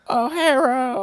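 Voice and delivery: very high-pitched mock Asian accent; exaggerated stereotype Asian accent, squeezed way up; caricatured Asian accent. Comic botching a requested Jamaican accent, caricatured Asian accent. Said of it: "do a very racist Asian accent".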